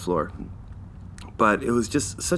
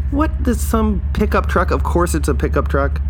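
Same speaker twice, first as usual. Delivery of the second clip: high, incredulous squawk at the parked truck; outraged disbelief; 10 semitones higher than usual. Retold or imitated. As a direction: pitch it way up, sputtering in disbelief. Ranting about stolen parking spot.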